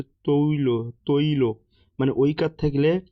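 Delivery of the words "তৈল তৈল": তৈল said "to-i-lo", the oi sounded as o plus short i; correct diphthong demo. Shown as a demonstration. Teacher showing the correct form to students, তৈল as "toi-lo". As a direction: articulate তৈল with a clear o-i glide. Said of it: "শুদ্ধ উচ্চারণ হচ্ছে".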